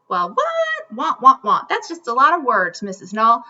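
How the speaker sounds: mock confused student, squeaky start; puzzled student. A pretend student protesting to Missus Null, lightly voiced and puzzled. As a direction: play a baffled kid protesting. Imagined student objecting to teacher.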